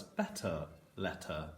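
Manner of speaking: slow "Better letter" with a lengthened er at each end; extra emphasis on er. Shown as a demonstration. Teacher repeating for pupils, er endings emphasized. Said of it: "I put a bit more emphasis on it there".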